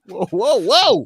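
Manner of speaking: drawn out cowboy whoa. Pretend. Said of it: "You sound like a cowboy".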